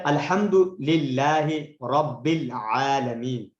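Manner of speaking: slow, measured recitation of the verse. Shown as a demonstration. Teacher demonstrating correct reading, slow recitation. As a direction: draw each word out calmly. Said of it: "عام طور پر ہم غلط پڑھتے ہوئے".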